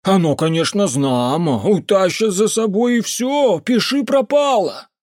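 put-on high, loud superstitious drunken rant; the drunk uncle warning the mage about creatures; ranting drunk peasant. A narrator's reading. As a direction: grumble darkly about the volcanoes. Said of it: "он захохотал".

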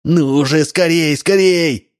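rising high, urgent push; hurried urging. A narrator's reading. Double pushing Udalov out window, frantic. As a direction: rush him, panic building. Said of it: "шипел".

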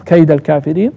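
كيد as kayda; fatha on كيد. Shown as a demonstration. Teacher showing the accusative, كيد ending in -a. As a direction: join كيد to الكافرين with an a. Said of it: "وبالنصب".

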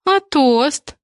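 capricious. Acted. Hostess demands a toast from her brother, pouty and capricious. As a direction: whine for a toast like a spoiled girl. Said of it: "капризным голосом сказала".

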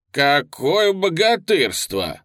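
slow, loud exclaim of mock awe. A narrator's reading. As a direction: marvel at the giant out loud. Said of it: "воскликнул Гужонков".

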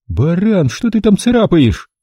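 high shrill panicked woman; high frantic female voice; shrieking woman. A narrator's reading. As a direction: screech at him in panic. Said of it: "заверещала она".

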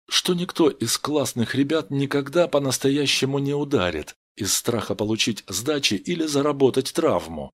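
ordinary delivery

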